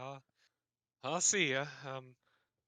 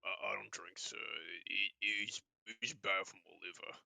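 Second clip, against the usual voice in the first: tag-less; 2 semitones lower than usual. Acted. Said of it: "having to stop that voice".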